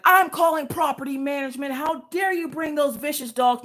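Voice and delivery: high-pitched imitation of an outraged lady; mock yelling. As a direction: mimic her complaint high, without real volume. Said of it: "She's yelling at me".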